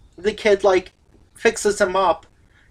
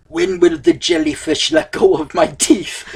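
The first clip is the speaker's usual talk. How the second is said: laughing pirate line; 5 semitones lower than usual. Retold or imitated.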